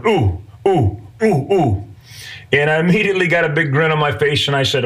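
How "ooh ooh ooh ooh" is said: imitating an eager pupil's "ooh, ooh"; short, urgent oohs, begging to be picked; hand-up "pick me" oohs, imitated; eager kid wanting attention. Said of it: "standing with his hand in the air going".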